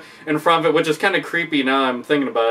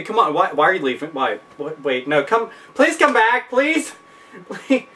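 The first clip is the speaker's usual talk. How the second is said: pleading. Retold or imitated. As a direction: beg them to come back. Rep begs leaving customer.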